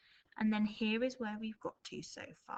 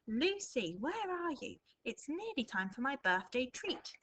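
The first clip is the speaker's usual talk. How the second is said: grandpa calling; 4 semitones higher than usual. Acted. Teacher reads grandpa's speech.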